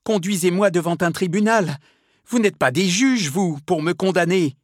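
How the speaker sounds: high, loud indignant demand; acted desperate shouting; howled protest. A narrator's reading. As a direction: cry out against your judges. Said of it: "hurlait Milady".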